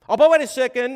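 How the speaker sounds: high, loud mock protest; mock objection. Preacher mocking a churchgoer's protest, high and loud. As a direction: fake protest from a hypocrite.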